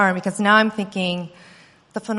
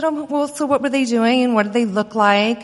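feigned casual; 3 semitones higher, 3 dB louder than usual. Retold or imitated. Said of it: "I didn't want to make her seem alarmed".

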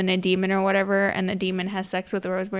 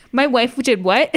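louder incredulous question; mock disbelief; 3 semitones higher, 5 dB louder than usual. Dad learning what his wife did, mock disbelief. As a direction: play a dad just hearing the news.

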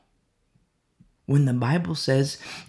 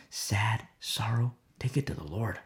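hushed sorrowful whisper; 6 semitones lower, 8 dB quieter than usual. Shown as a demonstration. Preacher voicing sorrow to the congregation in a whisper.

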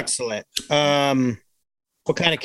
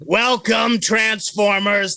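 Larry King; 5 semitones higher, much slower than usual. Retold or imitated. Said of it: "I think we could do a Larry King".

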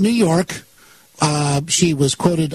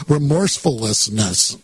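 laughing; 3 semitones lower than usual. Real, not acted. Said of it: "I am laughing".

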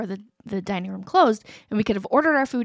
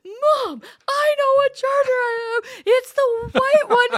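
very high, drawn-out mock wail; imitated crying child; 12 semitones higher, 4 dB louder, slower than usual. Daughter protesting to mom over the charger, hammed-up crying. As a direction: protest like a tearful kid, stretching each word. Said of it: "Adia starts crying".

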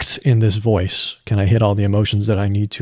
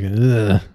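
short, grating "ugh"; gravelly grating grunt. Shown as a demonstration. Voice actor showing how the character grates, gravelly grunt. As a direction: add gravel to a short groan. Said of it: "grating kinda like".

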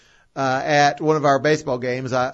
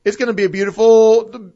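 prompter read; 4 semitones higher, 5 dB louder than usual. Shown as a demonstration. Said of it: "if it says".

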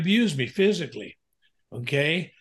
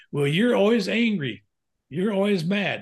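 wife accusing; 5 semitones higher than usual. Retold or imitated. Wife voiced accusing husband.

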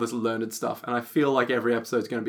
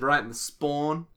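broad Australian spine said as spawn; Aussie accent on spawn; 3 dB quieter than usual. Retold or imitated. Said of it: "with a heavy Australian accent".

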